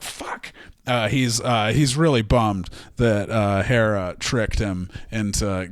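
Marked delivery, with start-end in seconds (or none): 0.0-0.5 muttered under the breath, voiceless; whispered curse. Acted. Zeus walking away from Hera, a voiceless whispered curse. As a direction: hiss a defeated "Fuck" to yourself. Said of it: "walks away and is like".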